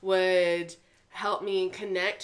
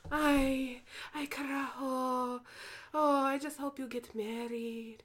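put-on Puerto Rican grandma accent; 4 semitones higher, 5 dB quieter than usual. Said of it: "conversation between my grandmother and I".

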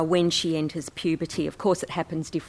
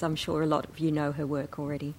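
whispered aside; 3 semitones lower, 6 dB quieter, faster than usual. Real, not acted. Quick aside to the audience.

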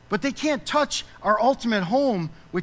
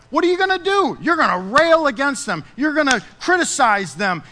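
raised, emphatic pulpit challenge; impassioned preaching; 5 semitones higher, 5 dB louder than usual. Real, not acted. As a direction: fire the questions at the congregation, louder and higher. Preacher heatedly mimics worldly priorities.

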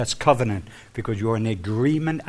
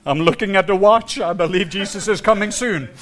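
overacted death scene; 3 semitones higher than usual. Mocking a fearful churchgoer.

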